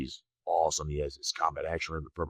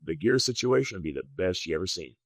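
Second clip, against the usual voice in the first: eager; 7 semitones higher than usual. Retold or imitated. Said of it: "And I was just eager".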